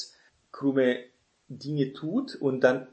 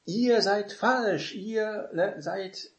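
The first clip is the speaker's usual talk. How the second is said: much higher and slow, a put-on voice passing judgement; judging; 8 semitones higher, much slower than usual. Shown as a demonstration. Preacher judging listeners, slow and condemning. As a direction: pronounce the verdict slowly from above. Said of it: "klingt so richtend".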